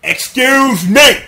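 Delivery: slow, rising to a loud, high yell; hammed-up boss shout; mock demanding. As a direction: demand the room cleared. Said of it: "he's like".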